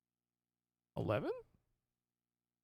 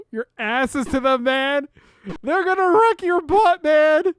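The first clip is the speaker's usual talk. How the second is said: loud excited yelling at teammate; 10 semitones higher, 9 dB louder than usual. Real, not acted. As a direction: shout the warning, much higher. Yelling at teammate in mech game.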